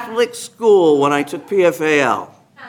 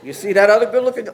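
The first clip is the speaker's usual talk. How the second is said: teasing sister-in-law; 3 semitones higher, faster than usual. Retold or imitated. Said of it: "She said".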